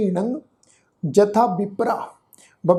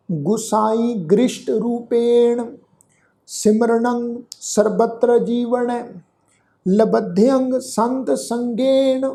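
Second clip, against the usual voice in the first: slow, measured reading of sacred verse; scripture recitation; 2 semitones higher, much slower than usual. Acted. The teacher recites the verse for the sangat, slow and devout. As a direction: intone each word slowly and with devotion.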